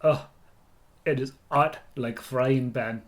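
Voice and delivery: slow, shaky attempt at a French accent; slow, muddled French-Russian accent. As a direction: put on a French accent that slips towards Russian. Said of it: "Or I got my French one".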